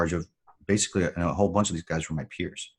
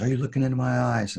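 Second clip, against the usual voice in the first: retold gunny scream; 7 semitones higher than usual. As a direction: bark it at the recruit like a gunnery sergeant. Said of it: "he's screaming this".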